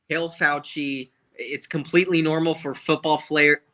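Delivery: slightly slurred tipsy talk. Real, not acted. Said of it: "Sorry, I'm a little drunk right now".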